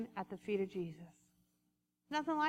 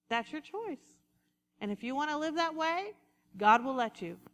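ordinary delivery

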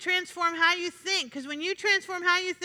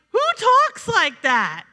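drawn-out, louder disbelieving question; incredulous; 3 semitones higher, 5 dB louder, slower than usual. Retold or imitated. Preacher recalls reacting to relatives' negative talk, incredulous. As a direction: stretch it out in mock disbelief.

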